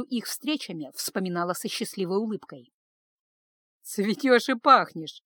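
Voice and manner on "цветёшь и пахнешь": teasing. Acted. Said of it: "подшучивали над ней по-доброму подруги".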